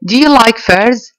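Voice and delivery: slow, careful classroom read-aloud. Shown as a demonstration. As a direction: read each word slowly for students. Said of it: "teacher reads question slowly". (قراءة بطيئة وواضحة)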